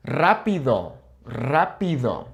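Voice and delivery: "Rápido" opening on a long trill; rolled initial R. Shown as a demonstration. New practice word for learners, trilled "Rápido". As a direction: roll the first R of "Rápido". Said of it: "Why are we rolling it".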